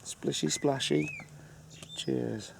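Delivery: high, singsong clinking-glasses toast; playful toast. Real, not acted. Partner toasting their last night together, playful toast. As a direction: pitch it up high for a cutesy cheers.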